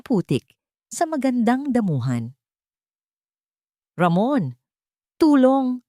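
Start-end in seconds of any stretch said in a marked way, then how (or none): 3.9-5.8 urgent loud call for help; shout for help. A narrator's reading. Maid calling Ramon for help, shouting. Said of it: "sigaw ni Zenny".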